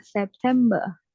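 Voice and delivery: September said with no R, ending in ah; non-rhotic September. Shown as a demonstration. Teacher repeating September the British way for her student. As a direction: drop the R at the end of September. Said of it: "R-nya nggak kebaca".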